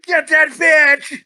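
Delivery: mock yell. Quoting gang member in movie.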